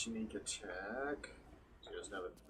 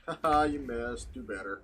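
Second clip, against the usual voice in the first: gloating taunt; 6 dB louder than usual. Real, not acted. Player to an enemy who just missed, gloating. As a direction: laugh it in the enemy's face.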